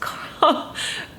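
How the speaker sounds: high, breaking burst of emotion; real choked-up sob-laugh; tearful gasp. Real, not acted. Vlogger overcome recalling her lost tree, tearful. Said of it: "crying like a baby".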